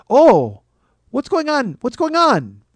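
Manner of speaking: high-pitched, fussing passenger; alarmed seatmate. Retold or imitated. Passenger reacting to reclined seat ahead, alarmed seatmate. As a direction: pitch it up, indignant at what just happened.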